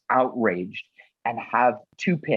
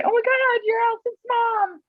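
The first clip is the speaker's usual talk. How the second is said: excited fan. Retold or imitated. Fans recognising her.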